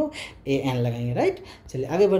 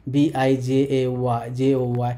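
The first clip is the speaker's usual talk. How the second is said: slow spelling out; 3 semitones lower, much slower than usual. Shown as a demonstration. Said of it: "English में हमारा कैसे लिखा जाता है".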